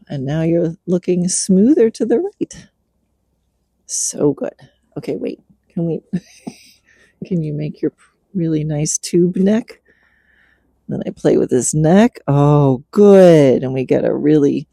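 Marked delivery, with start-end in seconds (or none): none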